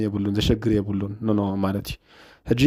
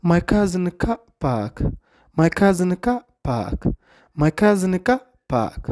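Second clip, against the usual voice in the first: slow, careful teacher repetition, a bit higher; slow repeat; 7 semitones higher, much slower than usual. Shown as a demonstration. Teacher repeating the clip for Tigrinya students, very slow and clear. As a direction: spell the sentence out slowly for students. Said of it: "እንጀራ እንታይ ትብል ዘላ?".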